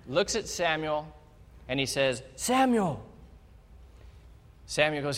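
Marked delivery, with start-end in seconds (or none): 2.4-3.1 voice of God calling. Acted.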